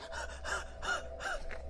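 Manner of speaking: sharp breathless gasp. Real, not acted. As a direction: gasp for air. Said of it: "I'm so out of shape".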